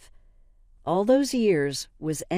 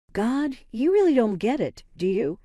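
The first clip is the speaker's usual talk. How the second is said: scornful outburst, pitched up and loud; angry; 6 semitones higher, 4 dB louder than usual. A narrator's reading. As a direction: lash out in contempt. Daughter's cruel outburst.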